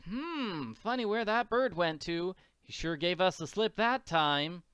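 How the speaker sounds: lightly voiced puzzled young girl; Little Orphan Annie. Annie searching for the Count, puzzled.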